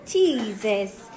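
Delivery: low groan after the burn; after a shot of liquor. Real, not acted. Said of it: "my chest is on fire".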